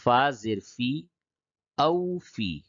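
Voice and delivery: letter by letter, then join the syllables; measured Qaida spelling drill; spelling-out recitation. Shown as a demonstration. Teacher demonstrates hijje spelling to learners, measured recitation. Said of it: "تو پہلے ہجے کر کے پڑھتا ہوں".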